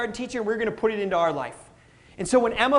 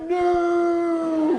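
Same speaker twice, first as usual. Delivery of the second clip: alarmed dad; 7 semitones higher than usual. Retold or imitated. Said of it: "I'm like".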